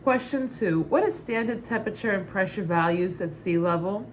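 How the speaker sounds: put-on light New York Brooklyn accent. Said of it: "read the question in my Muddets Berry Brooklyn accent".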